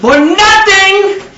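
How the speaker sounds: For nothing, with nothing drawn out slow and high; emphasis on nothing. Shown as a demonstration. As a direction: stretch the word nothing long and loud. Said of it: "Say it like you mean it".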